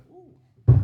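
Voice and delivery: sudden very high, loud ooh; a startled burst of delight. Real, not acted. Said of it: "Sorry, that was probably extremely loud".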